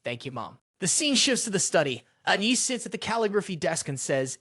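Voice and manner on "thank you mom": soft, lower thanks; relieved boy, softer and lower; gentle, grateful and quiet; softly. A narrator's reading. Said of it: "softly said".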